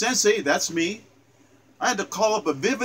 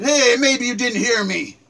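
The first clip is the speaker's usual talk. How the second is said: a nasty bully's voice, a little higher and louder; mock menacing bully; 5 semitones higher, 4 dB louder than usual. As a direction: sneer it like a schoolyard thug. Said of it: "He said".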